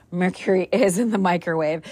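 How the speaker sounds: laughing through the words. Real, not acted. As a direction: giggle while agreeing. Mom repeats son's mix-up laughing.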